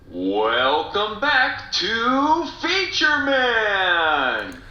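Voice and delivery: host calling the show open; announcer voice. Shown as a demonstration. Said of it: "So I kinda like that one".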